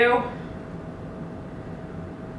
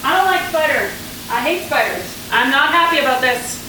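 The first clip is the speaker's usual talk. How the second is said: voiced complaint at usual pace, full volume; displeased complaint. Real, not acted. Cook facing a spider she must kill, displeased.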